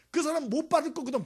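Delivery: loud, high preaching punch; emphatic shout. Real, not acted. Preacher to congregation, loud emphatic cry. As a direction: drive the point home loudly.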